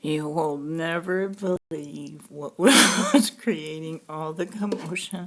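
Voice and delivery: loud, slow, laughing through the words; can't hold back laughter while telling it; laughing reveal. Real, not acted.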